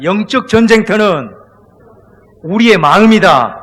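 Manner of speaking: slow, very loud congregational lead-in; loud call to repeat. Shown as a demonstration. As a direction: proclaim it slowly at full voice to be echoed. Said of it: "크게 한번 따라합니다". (회중이 따라 하도록 크고 느린 선창)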